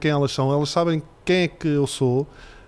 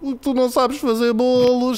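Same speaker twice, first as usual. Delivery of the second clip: put-on much higher, slow, matter-of-fact child voice; blunt little girl; 8 semitones higher, slower than usual. Daughter bluntly telling dad he can't bake, high slow child voice.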